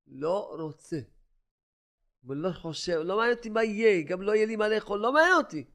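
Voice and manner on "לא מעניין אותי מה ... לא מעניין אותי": retold vow. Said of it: "הוא אומר לי".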